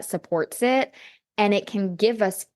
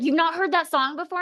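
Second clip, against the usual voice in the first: amazed question; 9 semitones higher, faster than usual. Retold or imitated. Boyfriend's amazed question, retold.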